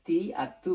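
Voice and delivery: তি and তু with plain t sounds; wrong "ti, tu" reading. Shown as a demonstration. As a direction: say তি, তু as "tee" and "too". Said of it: "তাহলে এটা ভুল".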